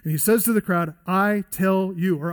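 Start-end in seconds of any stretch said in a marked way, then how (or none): 1.1-2.2 commanding. Acted. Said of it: "He's demanding here their full and undivided attention".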